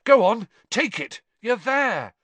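high urgent breathless urging; panting. A narrator's reading. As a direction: push him on, short of breath. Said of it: "Harry panted to Cedric".

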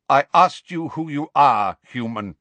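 loud, rough challenge. A narrator's reading. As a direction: demand an answer roughly. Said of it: "said Megorian roughly".

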